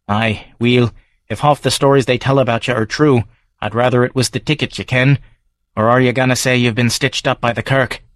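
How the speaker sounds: gruff Edinburgh local sizing up a stranger; Davy's Scots brogue; Scottish barfly. Acted. Davy suspicious.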